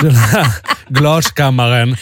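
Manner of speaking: slow, imitated German accent. German nurse showing the glass chamber, slow German accent. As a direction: stretch it out in a put-on German accent. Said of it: "hade en tysk accent".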